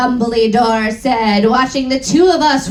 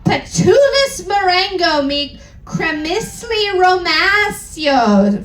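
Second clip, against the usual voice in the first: mock spell shout; 6 semitones higher than usual. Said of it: "Then he screamed".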